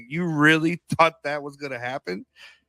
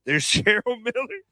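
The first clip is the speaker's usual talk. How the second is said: high excited imitation; mock excited spotting; 9 semitones higher than usual. Imitating friend spotting a star, high and excited. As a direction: point her out, high and excited. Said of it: "you said".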